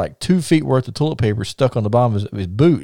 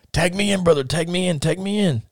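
urgent repeated call, lightly imitated Russian; Ivan Koloff; 7 semitones higher than usual. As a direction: plead in a mock Russian accent. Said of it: "staying in his Russian gimmick voice".

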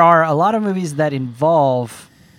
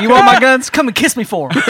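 imitated TikTok guy; 7 semitones higher, 4 dB louder than usual. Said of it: "he's like".

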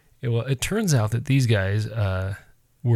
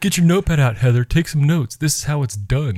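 teasing; 5 semitones higher, 4 dB louder than usual. Pretend. Teasing call to Heather.

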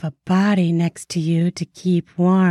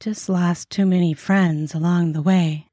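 sighing regret; 5 semitones higher than usual. A narrator's reading. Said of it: "She sighed".

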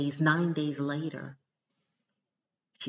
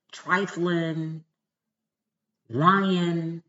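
louder and louder insult list; building tirade; 2 semitones higher, 7 dB louder, slower than usual. Real, not acted. Scolding the stagnant excuse-makers, building to loud. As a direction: pile on each word harder.

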